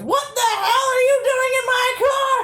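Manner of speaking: high, loud shocked shriek; an angry old lady catching a thief; old woman yelling. Retold or imitated. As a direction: screech it like an outraged stranger. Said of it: "and she says".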